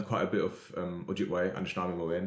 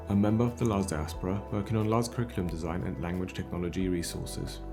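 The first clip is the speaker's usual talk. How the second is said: scripted podcast host's intro; podcast introduction read. Acted. Host introducing an episode on endangered languages, scripted intro read. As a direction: read out a measured welcome to listeners.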